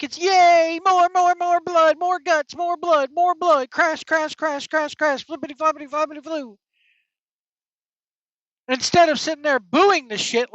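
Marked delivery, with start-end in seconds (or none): 0.2-6.6 higher, hammed-up chanting of "more blood"; mock the bloodthirsty crowd with a childish cheer; mock cheering fan. Sneering imitation of fans cheering for blood and crashes.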